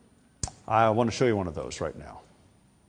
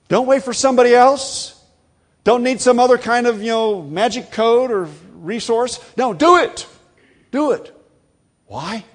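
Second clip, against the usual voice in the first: fervent exhortation; 12 semitones higher, 8 dB louder than usual. Real, not acted. Preacher exhorting congregation.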